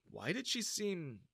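plain reading voice

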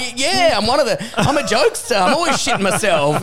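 high, giggly joking reply; laughing. Retold or imitated. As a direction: laugh through an awkward joke.

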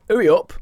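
"Hurry" said as "'urry", no h; northern "'urry up"; northern dropped h. Shown as a demonstration. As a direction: drop the h from "Hurry". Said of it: "Northerners might miss it out sometimes".

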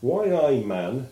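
a hint of a Geordie, slow; lightly mock the union man's Geordie; Geordie trade unionist. Host quotes the trade union friend in a light Geordie voice. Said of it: "his chum said".

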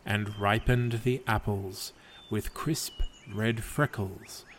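calm, even storyteller read of a gentle fable; story narration. A narrator's reading. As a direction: tell it like a bedtime legend. Reads a fable aloud.

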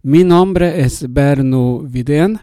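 Spanish with a Swedish accent. Real, not acted. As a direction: Swede speaking careful Spanish. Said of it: "Yo soy sueco y hablo un poco español".

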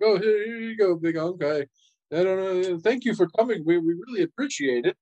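high, overly cheerful babble; nervous cover-up. Acted. Son to father, hiding his suspicion, fake cheerful. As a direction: paper over the awkwardness with fake cheer. Stuffing paper back, feigning politeness.

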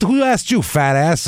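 high-pitched indignant retort; mock attacking. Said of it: "starts really attacking these friends".

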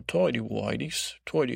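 badly faked English accent; attempted English accent. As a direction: feel your way into a mock English accent. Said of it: "English accent".

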